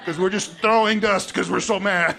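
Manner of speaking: real laughter breaking in; laughing. Real, not acted. Teacher joking about the angry crowd, laughing. Laughing at his own joke.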